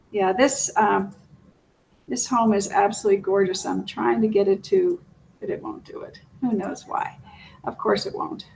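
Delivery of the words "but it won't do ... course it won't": soft annoyed whisper under breath; whispered muttering. Real, not acted. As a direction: mutter it to yourself, barely voiced. Muttering at the stuck video.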